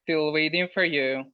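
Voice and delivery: usual speaking voice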